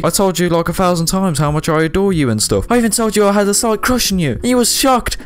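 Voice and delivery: high, mock-sweet teen girl voice; mock young girl. Man posing as an underage girl reads her messages, high girly voice. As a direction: gush it like a giddy fangirl. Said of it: "I'm trying to impersonate a young girl".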